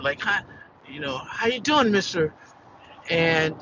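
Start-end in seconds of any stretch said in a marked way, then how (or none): 0.2-2.3 happy person. Retold or imitated. Employee retells greeting his boss, mildly cheerful. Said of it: "just like a happy person".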